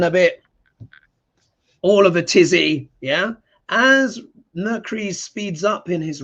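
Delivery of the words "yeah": ordinary talk, nothing marked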